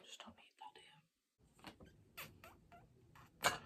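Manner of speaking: sighing whispered mutter; whispering. Real, not acted. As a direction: mutter it under your breath. Muttering at mascara smudge.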